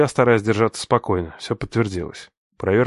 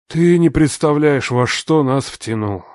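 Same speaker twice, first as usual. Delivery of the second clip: heavy warning; 5 semitones higher, 4 dB louder, slower than usual. Acted.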